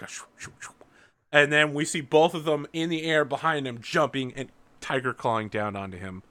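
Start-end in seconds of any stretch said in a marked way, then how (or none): 0.0-0.7 soft shoo-shoo sound effect; imitated whooshing. Game master imitates vanishing figures, soft whooshes. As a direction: make quiet, airy swishes. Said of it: "and we hear, like".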